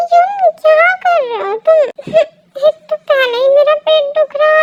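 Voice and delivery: high, loud, whining complaint; upset protest. Acted. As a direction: wail at him to stop. Girl protests being carried off. (रुआँसी, ऊँची आवाज़ में)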